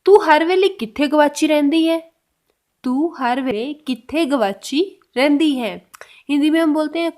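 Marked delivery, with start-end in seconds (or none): 0.0-2.1 louder model question. Shown as a demonstration. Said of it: "तो उसको पंजाबी में कैसे बोलेंगे?". 2.8-5.9 slow repeat. Shown as a demonstration. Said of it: "तो उसको पंजाबी में कैसे बोलेंगे?".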